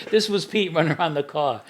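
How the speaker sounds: lightly mocking retelling. A friend teasing Pete for running, mild mockery. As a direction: poke fun at Pete a little. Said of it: "He made fun".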